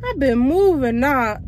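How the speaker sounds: breathless from walking fast; panting a little between words; out of breath. Real, not acted. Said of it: "I'm out of breath".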